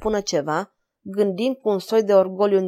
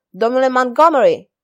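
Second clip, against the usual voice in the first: louder, higher call across the room; 4 semitones higher, 6 dB louder than usual. A narrator's reading. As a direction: summon the captain by name. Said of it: "Și strigă". (strigăt după căpitan)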